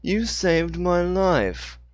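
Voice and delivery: very slow, deliberate and precise; clearly enunciated. Acted. Dixon thanks Hannah, slow and clearly enunciated. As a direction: space each word out. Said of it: "enunciated clearly".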